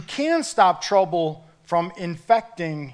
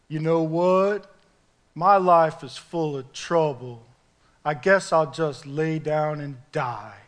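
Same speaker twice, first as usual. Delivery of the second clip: Droopy dog impression; 4 semitones lower than usual. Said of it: "maybe my impression will help you".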